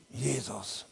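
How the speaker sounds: groaning Jesus, building to a full shout; a desperate whispered groan that grows into a triumphant yell; moaning to shouting. Retold or imitated. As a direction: start as a faint moan and swell into a roaring cry. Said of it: "hab ich wie gestöhnt".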